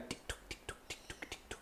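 tiny whispered tick-tock; light whispered clock ticks; small quick tick-tock. Shown as a demonstration. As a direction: mimic a small pendulum ticking softly. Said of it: "it wouldn't ticky-tocky very far".

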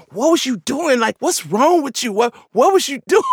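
high, imitated scolding breaking into laughter; dad laughing helplessly. Dad pretending to fuss at his kid, helpless laughing scold. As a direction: try to fuss while cracking up. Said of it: "He was laughing so hard".

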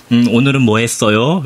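slow, careful question to a learner; slow Korean practice. Retold or imitated. Husband asking his Japanese wife about her day, slow practice question. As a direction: ask gently paced, as if to a beginner. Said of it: "그럼 이제 한국말로".

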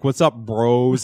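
slow, drawn-out sarcastic bro greeting. Retold or imitated. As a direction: drag it out mockingly. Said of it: "I would say bro sarcastically".

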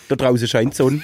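mock local German dialect; broad "da drause scheint Sonn" dialect; village dialect. Partner playing village pupil at school, mock local dialect. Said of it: "einfach nicht sprechen können".

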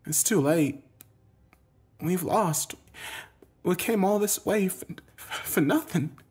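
high, hushed, halting despair; defeated. A narrator's reading. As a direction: give up sadly, with pauses. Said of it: "even she looked defeated".

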